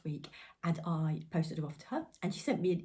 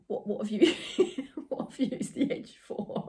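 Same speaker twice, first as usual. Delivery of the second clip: high giggling question; laughing; 5 semitones higher than usual. Real, not acted. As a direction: ask through giggles. Giggling at fabric detail.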